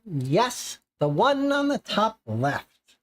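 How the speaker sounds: put-on elderly landlady.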